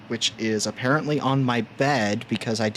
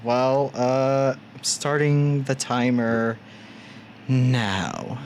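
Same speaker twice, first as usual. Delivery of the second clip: sultry voice; slower than usual. Pretend. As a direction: purr it like a seductress. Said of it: "you speaking in a sultry voice".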